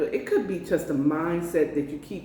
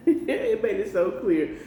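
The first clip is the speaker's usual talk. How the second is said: laughing; 4 semitones higher than usual. Real, not acted. Laughs at Holy Spirit's message.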